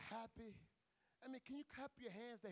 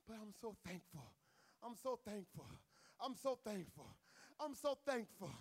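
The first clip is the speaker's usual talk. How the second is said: building gratitude; 4 semitones lower than usual. Real, not acted. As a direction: let the thanks grow with every repeat. Repeated thanks building up.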